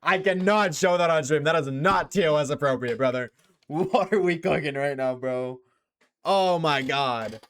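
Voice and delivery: stretched-out, emphatic scandalized reaction; shocked disbelief. Real, not acted. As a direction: react appalled, dragging out the words. Shocked, refusing to show it.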